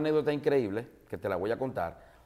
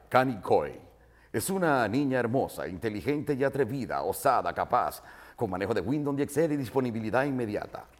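a touch of pompous announcer. Retold or imitated. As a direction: read it like an old-school radio host. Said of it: "porque los locutores hablan así".

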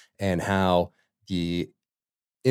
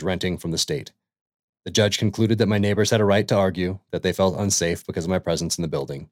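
brisk, earnest first-person reading, faster in places; reading a quote aloud; faster than usual. Acted. Host reads the introduction's ending to listeners, brisk and earnest. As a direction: read her words as a steady personal testimony.

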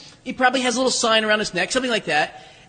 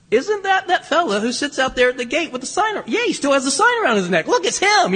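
higher-pitched, acted-out recognition; excited onlookers; 5 semitones higher than usual. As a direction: act out a crowd's growing excitement. Crowd recognizing the healed beggar.

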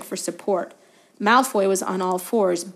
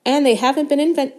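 proudly; 6 semitones higher, 5 dB louder than usual. A narrator's reading. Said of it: "said Hagrid proudly".

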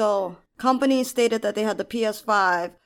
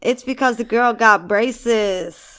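laughing; 5 dB louder, much slower than usual. Real, not acted. Laughing while explaining.

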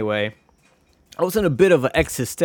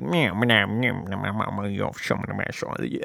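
mumbled cartoon meowing cusses, fading to a softer, then unvoiced trail; cartoon cat mumble; 4 semitones lower, 6 dB quieter than usual. Wacky Races crash, cussing in mumbled meows that fade out. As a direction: grumble like a crashed cartoon racer swearing in meows. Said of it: "they're like".

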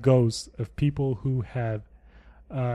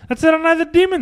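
high mocking echo; 10 dB louder, much faster than usual.

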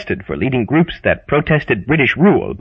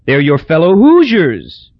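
Hazel's voice; 4 semitones higher, 4 dB louder, slower than usual. Acted. Hazel baffled.

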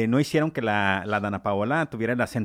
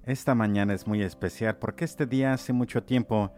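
lower, softer, slowing seductive lover's voice; hammed-up romantic lover; 5 semitones lower, 5 dB quieter than usual. Radio host hamming a lover's morning greeting, low and soft. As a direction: croon it like a cheesy radio romeo. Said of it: "Me transformo".

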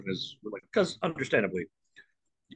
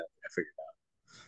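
mumbled aside; 6 semitones lower, 15 dB quieter, slower than usual. Real, not acted. Mutters aside to self.

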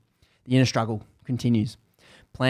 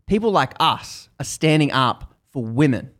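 fuming; 2 semitones higher, 3 dB louder than usual. Retold or imitated. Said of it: "she's fuming".

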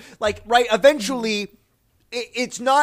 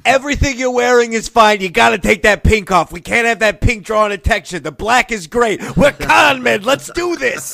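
heist boss; 6 dB louder than usual. Acted. Improvised con man boss.

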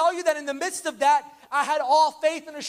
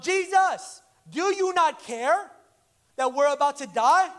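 panicked plea; 3 dB louder, slower than usual. Retold or imitated. Disciples in the storm crying to Jesus, mock panic. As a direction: plead like men about to drown. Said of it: "they're panicking".

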